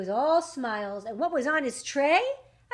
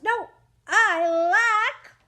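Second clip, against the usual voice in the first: dramatic lament; 7 semitones higher, 8 dB louder, much slower than usual. Acted. Cricket realizes he lacks more.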